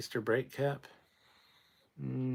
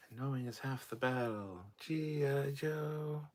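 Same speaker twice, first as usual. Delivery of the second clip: G I Joe tag line; 4 semitones higher than usual. Retold or imitated.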